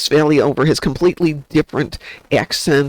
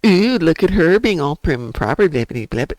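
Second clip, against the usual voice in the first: mocking; 3 semitones higher than usual. Swiss locals looking at the newcomer sister, mildly mocking. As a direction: imitate snooty onlookers trailing into blahs.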